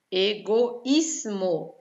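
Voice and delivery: slow "Egoísmo" as e, go, ís-mo; syllable by syllable. Shown as a demonstration. Teacher answering doubt about the S, syllable by syllable. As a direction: break "Egoísmo" apart, holding each syllable.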